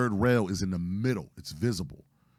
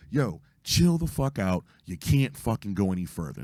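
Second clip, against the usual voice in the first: retold yelling. Warning a man on the tracks, retold yelling. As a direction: re-enact a warning shout without full volume. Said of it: "just start yelling".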